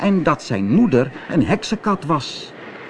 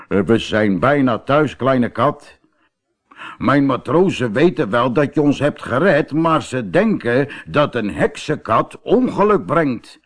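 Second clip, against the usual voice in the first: kapitein; 2 semitones higher than usual. Acted. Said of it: "de kapitein ... zei".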